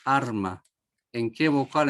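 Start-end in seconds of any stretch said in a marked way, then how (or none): 0.0-0.6 arma with the stress on the first a. Shown as a demonstration. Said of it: "en cuál de las dos vocales es la acentuada".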